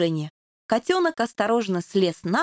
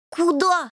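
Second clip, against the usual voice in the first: kittens asking; 6 semitones higher than usual. A narrator's reading. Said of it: "спросили котята".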